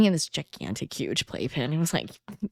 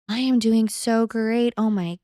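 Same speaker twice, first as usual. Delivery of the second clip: mock elation; 4 semitones higher than usual. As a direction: gush like a blissful new mom, lightly. Voicing her naive early postpartum elation.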